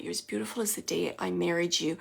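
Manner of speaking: soft, tender quote; gentle husband's voice. Retold or imitated. Medium voicing a husband to his wife, gentle and soft. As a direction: relay it gently and quietly. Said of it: "gentle voice".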